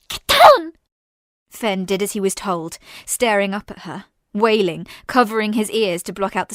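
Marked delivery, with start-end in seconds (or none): 0.1-0.7 high, loud shouted order; urgent shout. Acted. Sister shouts at her brother to take cover. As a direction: bark it over gunfire.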